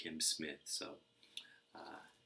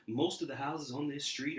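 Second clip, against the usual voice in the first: a hint of a sly crook, a bit higher and louder; mildly hammed-up crook explaining the plan; lightly voiced burglar; 10 semitones higher, 9 dB louder than usual. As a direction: play the scheming burglar lightly. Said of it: "Marv said".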